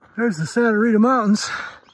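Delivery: breathless talking. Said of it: "you wonder why I'm breathing hard".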